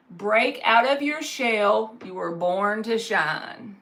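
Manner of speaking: slow, deliberate reading of the card. Acted. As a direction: read it out slowly, like a message. Reading oracle card slowly.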